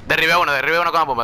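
quick proud shout of the kill; excited brag. Real, not acted. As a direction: rattle it off thrilled with the kill. Brags about a kill.

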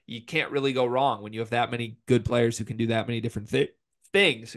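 talking with hiccups; hiccuping mid-sentence. Real, not acted. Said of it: "I have the hiccups right now".

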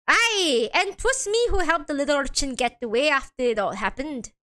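lightly voiced Irish defendant; attempted Irish accent. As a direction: try a rough Irish lilt. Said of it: "I can't do the Irish accent".

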